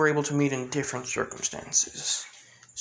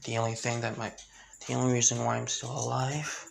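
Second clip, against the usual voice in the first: hushed vow; 2 semitones lower, 5 dB quieter than usual. Acted. Hushed vengeful figure's confession.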